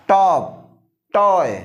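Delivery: टॉप, टॉय each opening on a hard retroflex ट; loud, careful टॉप, टॉय with falling tune; hard T demo. Shown as a demonstration. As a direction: punch out टॉप, टॉय as separate model words. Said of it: "तो पहले ट देखते हैं".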